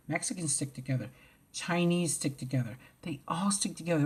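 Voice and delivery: whispered list. Real, not acted. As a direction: whisper each group.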